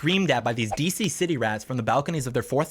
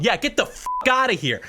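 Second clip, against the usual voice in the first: retold yell; 8 semitones higher than usual. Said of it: "and so I yelled".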